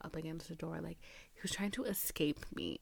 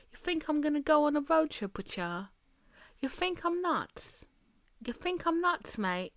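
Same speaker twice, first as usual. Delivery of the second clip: indignant outburst; 6 semitones higher, 5 dB louder than usual. Real, not acted. Indignant rant at the man.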